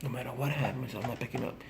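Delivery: hushed, almost whispered vow to self; quiet private morning vow to stay sober. Retold or imitated. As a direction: say it under your breath, firmly. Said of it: "I say to myself".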